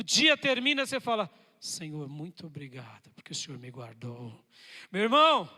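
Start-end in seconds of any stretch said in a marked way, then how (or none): 1.6-4.4 grateful prayer. Acted. Thankful prayer at day's end.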